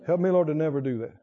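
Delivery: ordinary talk, nothing marked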